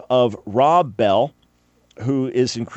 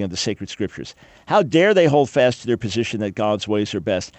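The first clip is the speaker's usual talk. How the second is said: sarcastic. Pretend. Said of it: "Yeah, I'm being sarcastic there".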